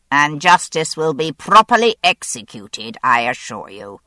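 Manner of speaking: loud, firm order to the officers; Admiral's ordinary voice. Acted. The Admiral ordering his officers, loud and commanding. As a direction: give the command with full authority. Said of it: "delivered this order in his ordinary voice".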